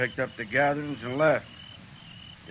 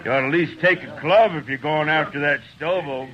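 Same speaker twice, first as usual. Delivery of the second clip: laughing taunt; 2 semitones higher, 6 dB louder than usual. Acted. Trail hand taunts the marshal.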